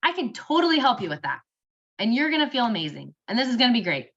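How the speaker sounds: hopeful reassurance. Shown as a demonstration. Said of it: "let them have that sense of hope".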